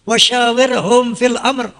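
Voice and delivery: slow chanted Arabic verse; Quranic recitation. Acted. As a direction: intone it with reverence. (lantunan ayat perlahan)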